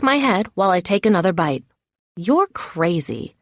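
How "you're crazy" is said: talking around a mouthful; mouth full. A narrator's reading. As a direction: say it through a bite of food. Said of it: "I'm very rudely talking around some tomato".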